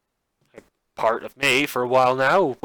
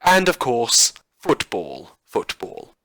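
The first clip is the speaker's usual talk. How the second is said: over-the-top newsreader voice, bright and bouncy; campy radio news broadcast; campy news anchor. Acted. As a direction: read the bulletin like a hammy TV anchor. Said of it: "this ridiculous campy tone that I've been putting on".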